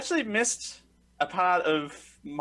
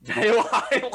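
growled villain shout; Demon Kai voice; 7 semitones higher, 6 dB louder than usual. Acted. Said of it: "Demon Kai voice you just whipped out there".

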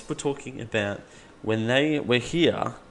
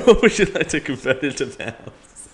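Siri impression; 3 semitones higher, 6 dB louder than usual. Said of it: "Siri imitation".

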